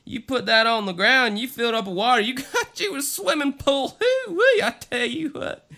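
high, loud, excited redneck; excitable redneck voice. Pretend. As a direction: whoop it up like an excited country hick. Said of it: "That's my excitable redneck voice".

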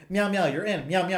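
high, purring Catwoman voice; nervous cat voice. Retold or imitated. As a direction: coo it like a cat. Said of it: "She's like".

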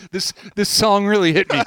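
laughing through fake tears; mock emotional, giggling. Fake teary stoner.

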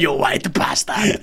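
drawn-out insult in a put-on South African accent; hammed-up South African growl; Mandela. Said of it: "Like Mandela".

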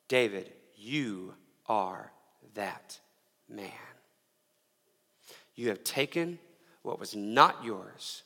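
slow, soft, grave accusation, words spaced out; hushed rebuke. Retold or imitated. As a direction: lean in and quietly name his guilt.

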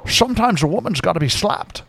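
put-on lightly Scottish-accented Connery; Connery impression. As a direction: say it in a Scottish burr. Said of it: "He's like".

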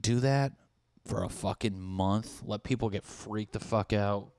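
usual speaking voice

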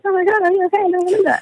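high alarmed mock fuss; panicked bystanders. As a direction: imitate onlookers fussing in panic. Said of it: "Everyone else around me is like".

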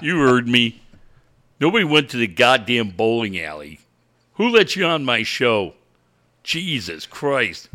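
low gruff mock coach; a hint of a sour coach; angry coach.

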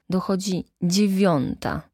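understated pointed reply; measured, emphatic correction; pointed emphasis. A narrator's reading. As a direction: state it with deliberate weight. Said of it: "odparł ze szczególnym naciskiem".

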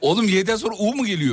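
laughing. Real, not acted. Mocking while laughing.

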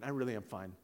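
low-pitched, understated denial; closed-off insistence. Retold or imitated. Husband reassuring a doubting counselor, closed-off insistence.

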